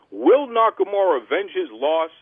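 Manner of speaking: dramatic wrestling-show announcer; announcer teaser. Acted. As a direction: pose the cliffhanger to listeners. Teaser read to listeners.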